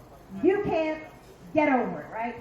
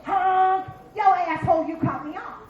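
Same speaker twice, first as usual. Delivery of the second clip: mock road rage; 4 dB louder than usual. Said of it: "and I go".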